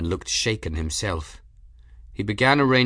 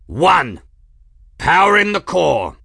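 loud, high call; triumphant shout; 8 semitones higher, 9 dB louder than usual. A narrator's reading. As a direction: announce it over the din. Countdown ends with shout.

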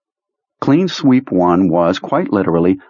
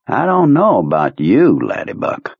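trailing into a breathy menace; ominous Kurtz voice; 3 semitones higher than usual. Acted. Kurtz mock-ominous to Perlmutter.

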